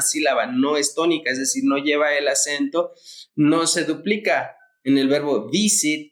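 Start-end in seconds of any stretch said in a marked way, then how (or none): 5.5-6.1 "visit" stressed on its first syllable, VI. Shown as a demonstration. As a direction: put the accent on the VI of "visit". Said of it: "como el acento recae en V".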